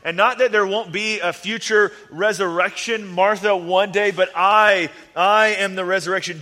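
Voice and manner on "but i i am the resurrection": loud, fast declaration; emphatic. Acted. Jesus proclaiming himself to Martha, loud and fast. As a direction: proclaim it with force.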